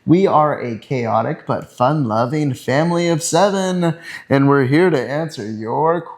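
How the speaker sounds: upbeat game show host voice; bright host intro. Real, not acted. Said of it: "Why do you sound like a game show host?".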